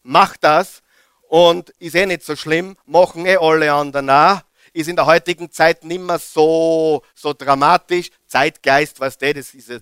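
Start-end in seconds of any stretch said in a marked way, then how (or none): 0.0-4.4 tempter's whisper. Retold or imitated. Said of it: "Zuerst flüstert er".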